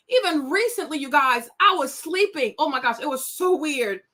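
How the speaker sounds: usual speaking voice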